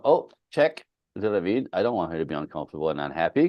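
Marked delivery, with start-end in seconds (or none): 0.0-0.8 high, louder oh check; husband realizing he's barking, high sharp oh; sudden realization. Retold or imitated. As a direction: catch yourself with a jolt. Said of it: "I remember going".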